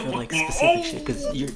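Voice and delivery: squeaky high-pitched outburst; voice cracking high. Real, not acted. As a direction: voice shooting way up. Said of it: "it sounded like you were flying to heaven".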